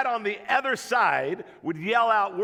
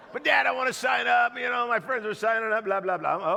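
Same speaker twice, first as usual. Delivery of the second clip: put-on whiny kid shout; 2 semitones higher than usual. Son begs his dad to sign up, whiny raised voice. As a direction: push back like a begging seven-year-old.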